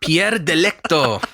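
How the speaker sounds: slow Italian-style name; Italian accent. Shown as a demonstration. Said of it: "Say it again, please".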